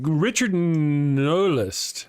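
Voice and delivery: Richard Newlist drawn out slowly, syllable by syllable; slow careful stab at a name; careful name reading. Shown as a demonstration. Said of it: "I hope I said your name right".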